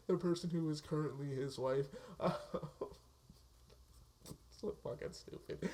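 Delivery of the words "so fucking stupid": breathy wheeze of a laugh through the words; so fucking stupid gasped out mid-laugh. Real, not acted. Vlogger cracking up at the movie plot, laughing.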